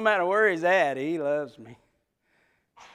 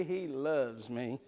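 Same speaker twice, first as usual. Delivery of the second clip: softer, lower, slow "he loves me"; tender hushed repeat of "he loves me"; soft savoring; 4 semitones lower, 7 dB quieter, much slower than usual. Shown as a demonstration. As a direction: let "he loves me" melt away slowly and softly. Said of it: "he loves me repeated".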